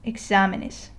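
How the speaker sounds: "exámenes" stressed on the second syllable, e-XÁ-menes; stress on accented syllable. Shown as a demonstration. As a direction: read "exámenes" with the stress on the á, falling after it. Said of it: "So if I read it correctly".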